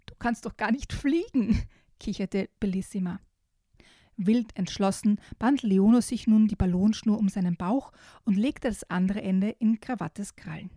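put-on lively storybook reading for small kids; reading to children. Host reading a children's book excerpt to young listeners, storybook voice. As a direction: read it like a bedtime picture book. Reads picture book aloud.

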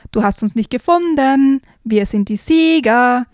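boasting. Acted. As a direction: crow about winning the game. Kids boast they won.

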